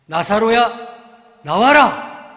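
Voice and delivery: drawn-out loud command; commanding call. Acted. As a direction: summon Lazarus out with full voice. Jesus calls Lazarus from tomb.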